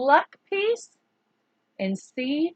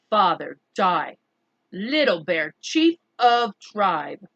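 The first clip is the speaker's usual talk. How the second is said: dignified Little Bear; 4 semitones lower, 4 dB louder than usual. Acted. Little Bear boasts of title.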